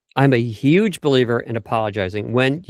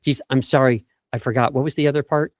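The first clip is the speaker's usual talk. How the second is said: flustered apology. Shown as a demonstration.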